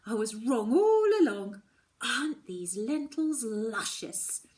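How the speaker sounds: high, loud sarcastic mock gushing; mock confession to Mum. Daughter mocking an imagined apology to Mum, high mock gushing. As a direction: sarcastically gush over the lentils. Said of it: "I'll turn around and I'll say".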